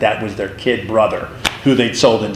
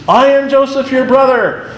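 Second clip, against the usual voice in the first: weeping reveal; 11 semitones higher than usual. Retold or imitated. Joseph revealing himself to his brothers, voice lifted high with emotion. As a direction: cry out "I am Joseph" as if about to weep. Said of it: "he starts to weep and says".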